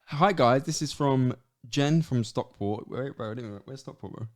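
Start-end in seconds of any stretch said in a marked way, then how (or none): 0.1-2.9 slightly louder reading voice, drawn out; reading out a listener email. Shown as a demonstration. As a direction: read the email aloud, announcing each word. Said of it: "let's see what the question is".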